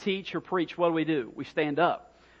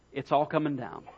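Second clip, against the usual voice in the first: plainly stated prediction; matter-of-fact; 3 semitones lower than usual. Retold or imitated. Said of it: "Jesus really sounds matter of fact".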